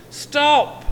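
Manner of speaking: shrill-free loud high yell. A narrator's reading. Anne yelling after the gingerbread man, loud high shout. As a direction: call out sharply to make him halt. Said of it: "yelled Anne".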